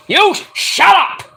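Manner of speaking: drawn-out high retort; slow high comeback; slow mock retort. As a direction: stretch it out, mocking back. Mock argument shouting.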